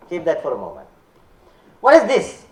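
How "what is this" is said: higher, louder, surprised challenge; mock surprise. Speaker challenging the audience after the slide, surprised. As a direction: throw the question out in disbelief.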